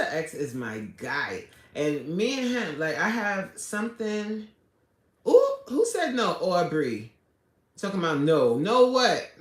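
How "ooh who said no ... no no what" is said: mock offended. Real, not acted. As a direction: call out the chatter in jest. Reacting to viewer saying no.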